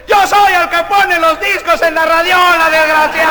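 high, loud, hammed-up dying cry; dying man. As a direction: wail it out as a comic last gasp. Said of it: "El mexicano moribundo dice".

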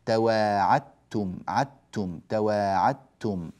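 "تواعدتم" said slowly with a doubled "تّ"; careful tajweed demo of "تواعدتم"; assimilation demo. Shown as a demonstration. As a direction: say "تواعتّم" slowly. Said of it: "يكون النطق بتاء واحدة مشددة".

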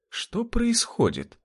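high, slow, baffled question; bewildered. Acted. Rudy confused by Jurgen's madness, bewildered. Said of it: "недоумевал Рудый".

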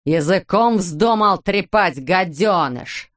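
slow, furious yell; a mild mock yell from an enraged father. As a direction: spit the insult at the boy. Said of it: "заорал он".

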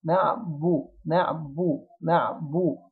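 نعبو with a light baa going straight into a rounded vowel; quickly rounded baa. Shown as a demonstration. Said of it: "أضم الشفتين بسرعة عشان هي مضمومة". (نعبو بباء مرققة وضم سريع)

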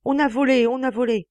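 high, loud repeated alarm; alarmed shout. Acted. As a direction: shout the news again. (cri d'alarme répété)

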